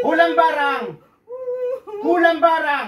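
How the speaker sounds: loud, high demand; forceful exorcist's shout; shouted interrogation. Real, not acted. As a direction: fire it at the spirit as a challenge. Healer interrogates the spirit.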